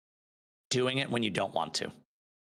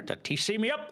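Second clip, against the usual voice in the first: high silly voice; 12 semitones higher than usual. Retold or imitated. Mimicking a friend's inside joke.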